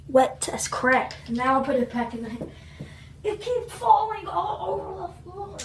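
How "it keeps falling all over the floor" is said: frustrated shout. Real, not acted. Ice slipping.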